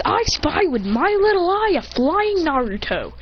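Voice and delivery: high, slow, swooping chant; playful sing-song. Acted. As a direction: tease it out like a children's game. Playful spotting of a friend.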